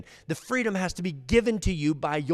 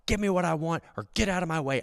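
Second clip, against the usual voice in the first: higher, mock defiant voice; a hint of a scornful criminal; voiced proud thief; 3 semitones higher than usual. First thief clinging to his badge, defiant. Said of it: "the first guy's like".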